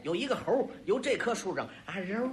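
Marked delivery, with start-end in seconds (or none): 2.0-2.3 long drawn-out imitated whoosh; drawn-out flying sound effect; whooshing leap noise. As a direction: mimic a swooping jump through the air. Imitates the monkey leaping between trees.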